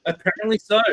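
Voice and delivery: Apparently so said through a laugh. Real, not acted. Telling friends police came over swearing, laughing.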